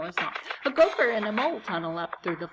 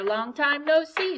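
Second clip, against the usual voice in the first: slow, higher friendly greeting; cheery hare; 6 semitones higher, 4 dB louder than usual. Acted. Hare greets mouse after a long time, slow and cheery. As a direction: draw it out like a happy old friend. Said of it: "says Hare".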